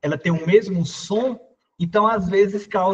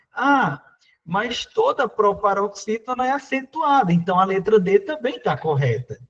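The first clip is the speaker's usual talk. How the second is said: objecting candidate; 3 semitones higher than usual. Retold or imitated. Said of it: "muitos candidatos que estão começando ficam questionando".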